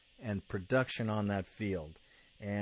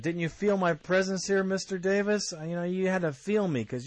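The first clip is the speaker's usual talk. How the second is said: Woodson; 8 semitones higher, 4 dB louder than usual. Retold or imitated. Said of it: "and he also said".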